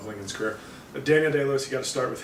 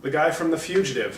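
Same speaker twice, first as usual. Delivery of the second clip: higher, excited recognition; each name a little aha; recognizing actors; 5 semitones higher than usual. Retold or imitated. Viewer spotting familiar actors, excited. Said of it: "you'll just constantly be going".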